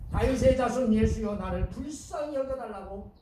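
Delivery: loud opening appeal, easing off; imitated urgent plea, strong at the start; earnest cry. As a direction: cry out for mercy in faith. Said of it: "간절하게 예수님의 능력을 믿고".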